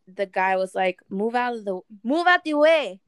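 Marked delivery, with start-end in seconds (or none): 1.1-3.0 mock demand. Acts out angry driver's demand.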